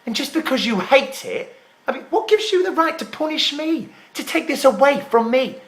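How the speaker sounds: worked-up, accusing argument; indignant protest. Acted. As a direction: argue your case in outraged disbelief. Acted quarrel over the show.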